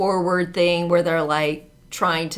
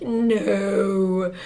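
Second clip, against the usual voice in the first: British king; 3 dB quieter than usual. Retold or imitated. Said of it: "'cause it was British".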